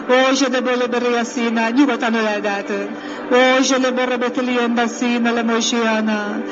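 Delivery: rhythmic prayer in tongues; speaking in tongues. Acted. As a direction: pour out flowing tongues prayer. (nyelveken imádkozás)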